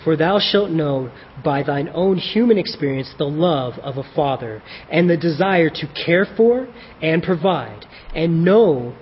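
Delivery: King James reading. Acted. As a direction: read the letter as God speaking in old King James English. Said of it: "I'm gonna read it like that just 'cause it makes it sound cool".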